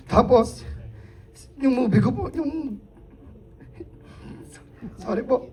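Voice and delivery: shaky, halting, near tears; after crying. Real, not acted. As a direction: speak through lingering tears with long pauses. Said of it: "Sorry, naiyak ako". (garalgal na boses matapos umiyak)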